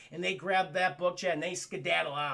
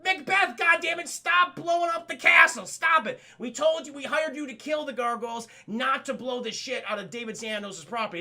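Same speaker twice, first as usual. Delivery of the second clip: high, loud, exasperated scolding; hammed-up furious boss yelling; angry employer; 5 semitones higher, 5 dB louder than usual. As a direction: chew out the hired man for wrecking the castle. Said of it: "Alan Rickman's like".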